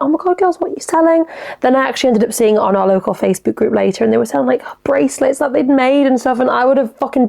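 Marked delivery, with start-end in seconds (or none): 0.0-1.2 put-on high squeal of delight at the kids; pitched way up, gushing at cute girls; imagined high excited greeting to the little sellers. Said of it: "go and be like".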